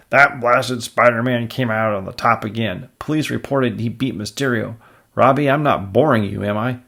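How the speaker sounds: loud, blustering rant; blustering editor. Acted. Jonah ranting loudly at Robbie. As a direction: bark it like a cranky boss.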